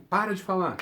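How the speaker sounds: "Para de falar" dito como ordem, um pouco mais alto; ordem firme. Shown as a demonstration. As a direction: mande parar de falar, firme. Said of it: "pra dar uma ordem". (ordem ríspida de leve)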